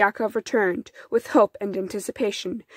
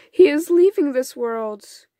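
grieving mother, voice raised higher and louder; great sadness; 5 semitones higher, 5 dB louder than usual. A narrator's reading. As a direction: let the grief push the voice up. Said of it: "with great sadness in her voice".

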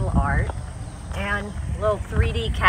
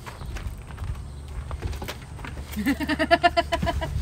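soft, airy laugh; kind gentle laugh; 7 semitones higher, 8 dB quieter than usual. Real, not acted. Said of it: "Sorry, I'm not laughing at you".

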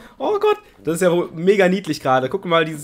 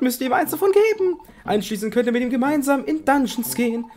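disguised Ampharos voice; 4 semitones higher than usual. Acted. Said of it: "Mit verstellter Stimme".

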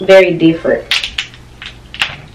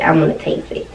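whispered; 6 dB quieter, faster than usual. Real, not acted. Emphatic aside about tasting.

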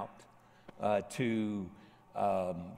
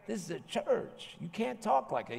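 mock high stern woman's scold; high-pitched church-lady rebuke, hammed up; Karen scolding; 10 semitones higher than usual. Sergeant scolding Charles about cursing in church, mock high scold. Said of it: "and Karen, the sergeant, said".

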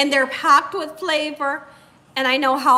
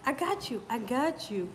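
softly reassuring, voice dropping away; soothing; 9 dB quieter than usual. Real, not acted. Woman comforting a baby, soothing. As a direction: soothe a little one gently.

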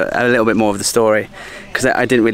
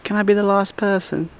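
higher, whispered little plea; pleading whisper; 10 semitones higher, 3 dB quieter than usual. Retold or imitated. Vlogger asking the closing monk to squeeze in, hushed whisper. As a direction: beg the monk quietly to be let in. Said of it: "And I was like".

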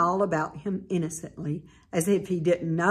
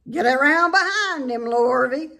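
calling out; 7 semitones higher, 6 dB louder than usual. A narrator's reading. Farmer directing hired man.

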